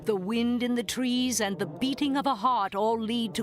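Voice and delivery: measured, dramatic radio-host opening; announcer intro. Acted. Radio host announcing the show to listeners, ominous. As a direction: build suspense as you welcome listeners.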